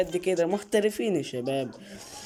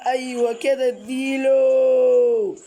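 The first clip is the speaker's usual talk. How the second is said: excited urging; 5 semitones higher, 4 dB louder, slower than usual. Real, not acted. Gamer urging the game on.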